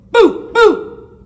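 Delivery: high, loud ghostly boo; big haunting boo; spooky boo. A narrator's reading. Scary pumpkin head says boo.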